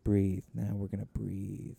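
slow, soft drawn-out breathing prompt; creepy commercial. Retold or imitated. Host mimicking the Calm app commercial, creepy. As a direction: imitate a creepy, soothing app ad. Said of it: "really creepy commercials where it's like".

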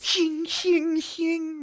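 high, ringing imitated blade strokes; knife-sharpening noise. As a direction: make loud, high metallic scrapes with the voice. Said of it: "with his knife".

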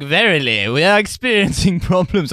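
put-on old-timey voice. Sixteenth century guy voice.

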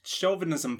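whispered question, playing along. Host answering the whisper joke, whispering too. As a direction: whisper back, joining the bit.

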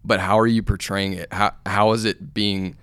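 pressing, emphatic questions; fired up. Real, not acted. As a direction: press the challenge with some force. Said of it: "I just got fired up".

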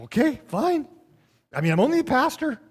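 mock resignation.

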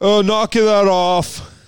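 high, slow, laughing scold; laughing mock scold. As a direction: tease through laughter.

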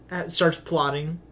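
spraying spit on the s; wet, spitty consonants; spitty s sounds. Real, not acted. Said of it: "Ew, you spit on me".

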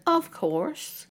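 imitating a shameless shrug of an answer; smug matter-of-fact tone. Imitating the teacher's casual answer, smug and shameless. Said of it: "he said it in that tone of voice".

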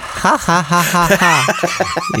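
mock cartoon ha ha ha; a hammed-up cartoon laugh. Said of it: "Cartoon laugh".

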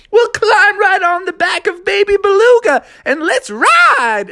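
high, eager call; rally them to ride; high excited shout. Acted.

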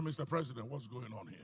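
low hushed appeal to the president; hushed private plea. Retold or imitated. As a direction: speak quietly, just between the two of you.

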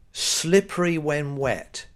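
slow, measured reading of a sign. Retold or imitated. Reading the sign outside the motorway toilets, slow read-out. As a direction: read it out slowly, word by word. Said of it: "all it says is".

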